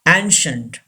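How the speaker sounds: ancient as "AN-shunt", two syllables. Shown as a demonstration. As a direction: say ancient with a simple "sh" in the middle. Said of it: "C I gives the sound sh".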